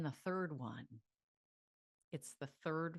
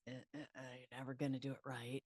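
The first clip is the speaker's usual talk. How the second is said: mock inner critic; 4 semitones lower, 8 dB quieter, much faster than usual. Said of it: "the inner critic goes".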